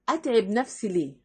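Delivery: understated, unbothered quote; cool indifference. Acted. Self-loving woman brushing off household troubles, coolly. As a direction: lightly act out not caring. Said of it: "تحل كل المشاكل دي ببرود".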